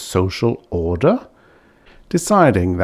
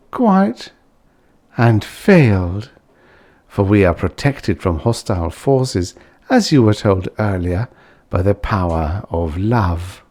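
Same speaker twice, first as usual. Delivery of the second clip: serene Belfin. Acted. Belfin calmly rebuffing Ludovic.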